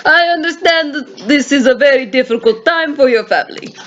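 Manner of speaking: measured inspector with a put-on Russian accent; formal condolence in attempted Russian accent. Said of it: "let's just keep it a Russian".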